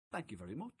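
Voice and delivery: put-on mild, humble thank-you from an old gentleman; gracious thanks. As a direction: accept the odd compliment with quiet grace. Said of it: "Stanley Matthews went".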